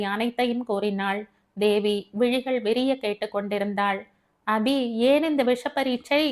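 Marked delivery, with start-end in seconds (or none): 4.5-6.2 lightly voiced, higher-pitched friend; disapproving Devi. Devi questions Abi's risky test, higher mildly reproachful voice. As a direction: question her choice with mild reproach.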